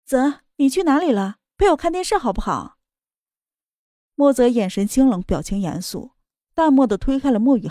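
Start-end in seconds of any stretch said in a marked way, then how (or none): 0.1-2.8 put-on higher, sweet girlish coaxing; sweet and gentle. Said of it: "一脸恬静地道".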